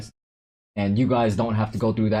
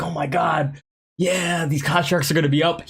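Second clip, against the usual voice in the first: higher-pitched mock excitement; imitated excitement; 7 semitones higher than usual. Streamer imitating a friend who saw the price going up, excited. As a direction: play your friend thrilled at the price. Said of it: "He got so excited".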